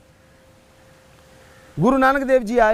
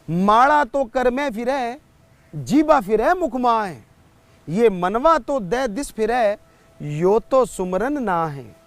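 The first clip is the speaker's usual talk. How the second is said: slow, measured verse recitation; slow doha recitation from a preacher; devotional couplet recital; slower than usual. Acted. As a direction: recite the couplet line by line, drawing out the words.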